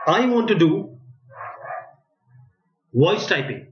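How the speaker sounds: धीरे, रुक-रुक कर, एक-एक शब्द साफ़; बोलकर टाइप करवाने के लिए धीमी अंग्रेज़ी; slow dictation English. Shown as a demonstration. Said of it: "okay, let me speak in English now". (माइक के लिए धीमा, साफ़ डिक्टेशन)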